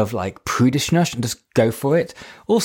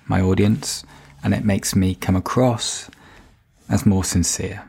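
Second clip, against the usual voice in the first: intimate; 3 semitones lower than usual. Shown as a demonstration. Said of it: "when you wanna draw people in".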